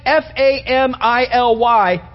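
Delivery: each letter said slowly and apart; spelled out letter by letter. Shown as a demonstration. Preacher spelling the acronym out to the church, slowly. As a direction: spell F A M I L Y out for them. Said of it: "this acronym called family".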